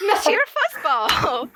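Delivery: hammed-up French accent on a pet name. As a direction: put on a playful French accent. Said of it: "say fuzzball in a French accent".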